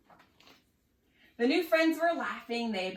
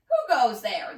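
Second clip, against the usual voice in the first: nervous call; 9 dB louder than usual. A narrator's reading. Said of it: "the nervous otter said".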